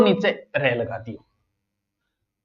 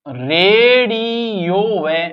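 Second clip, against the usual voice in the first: slow demo; 3 semitones higher, much slower than usual. Shown as a demonstration. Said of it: "कौन सा शुद्ध है".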